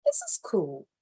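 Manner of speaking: hushed whisper; whispered aside. Real, not acted. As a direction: breathe it out in a whisper. Sudden aside before next story.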